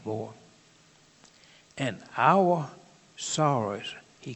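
slow, weighty Bible reading with stressed "our"; scripture reading. Acted. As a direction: read each line slowly, leaning on every "our". Reads Isaiah passage aloud.

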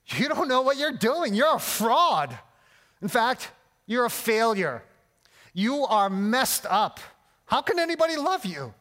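the enemy's voice, taunting and belittling, some lines slowed; mock voice of the enemy taunting the listener; accusing lie voice. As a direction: cut them down line by line like a sneering accuser. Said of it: "here's what this lie sounds like".

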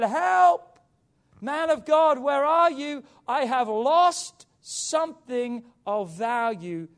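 loud, high shout, drawing out the last words; screamed cry for help. Acted. Preacher acts young man who lost borrowed axe, shouted plea. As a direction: call out desperately to the man of God. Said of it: "He screamed out and he said".

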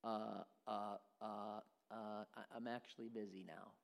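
mock timid loudmouth backing down; hesitant backing out. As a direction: shrink back, suddenly afraid.

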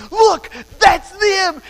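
high, slow teasing announcement; mock excitement. Father teasing daughter about a passing truck, high and slow. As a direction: tease a child into looking out the window. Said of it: "and I'd go".

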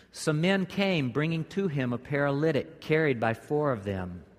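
measured reading of the passage aloud; scripture reading. Acted. Pastor reading scripture to the church, measured reading voice. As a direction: read the verses to the congregation.

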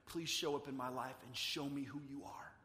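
hushed, breathy plea to God; whispered prayer. Pretend. Preacher voicing a believer pleading with God, whispered.

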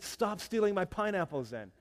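mock-angry comeback at the thieves; exasperated retort. Missionary snapping back at villagers.

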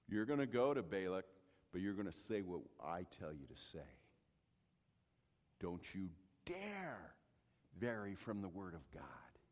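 the angel warning Balaam; angel's warning. Retold or imitated. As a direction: whisper the threat gravely. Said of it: "angel warns Balaam".

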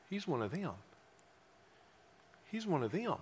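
a low, breathy accusing murmur; quiet whispered accusation; hushed accusation. Retold or imitated. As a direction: murmur it like a servant girl pointing him out.

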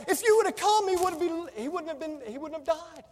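grieving reproach. Retold or imitated. Martha and Mary telling Jesus he came too late, grieving. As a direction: plead through grief, trailing off.

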